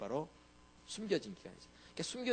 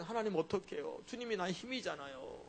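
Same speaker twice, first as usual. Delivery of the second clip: humble plea; 3 semitones higher than usual. Retold or imitated. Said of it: "이렇게 엎드렸어야지".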